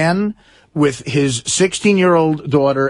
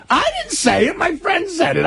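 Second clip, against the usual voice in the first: laughing protest; 14 semitones higher than usual. Real, not acted. Laughing denial of blame.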